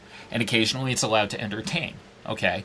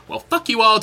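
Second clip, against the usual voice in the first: higher and louder mock snarl; mock defiance; 10 semitones higher, 6 dB louder than usual. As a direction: bark it like a mock tantrum. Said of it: "it went from".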